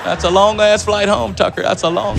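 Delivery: a president. Retold or imitated. President cajoling tired Chris Tucker, lightly imitated. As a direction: coax like a folksy politician. Plays president coaxing him to perform.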